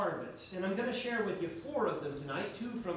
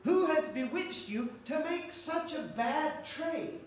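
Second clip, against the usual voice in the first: raised, pleading apostle voice; voicing Paul; 7 semitones higher than usual. Paul pleading with the Galatians, raised and earnest. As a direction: plead it like Paul scolding the church. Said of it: "the Apostle Paul kept saying".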